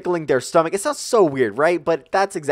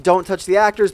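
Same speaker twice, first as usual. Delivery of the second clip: louder, higher shouted rule; retold yell; 6 semitones higher, 5 dB louder than usual. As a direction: holler the rule at the group. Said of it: "He's screaming to us the rules".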